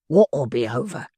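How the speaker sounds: slow, mildly savage demand; a hint of a savage snarl. A narrator's reading. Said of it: "in a savage voice".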